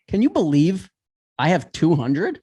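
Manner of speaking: a light mock of the husband admitting he only has two hundred; half-hearted impression of a sheepish husband; imitating the husband's sheepish ask. Retelling the husband at the grocery store, a light sheepish mock. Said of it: "the way he really does it is kinda like".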